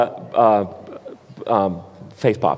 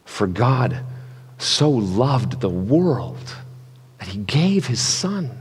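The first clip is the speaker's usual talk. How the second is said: generous reading; slower than usual. Shown as a demonstration. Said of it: "how big and generous the actual words".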